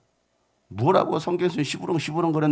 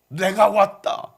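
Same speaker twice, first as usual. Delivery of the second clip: slow, higher mock-pompous proclamation; general's grand announcement; 4 semitones higher, 4 dB louder, much slower than usual. General announcing himself at the door, grandly. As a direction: announce your arrival, drawn out.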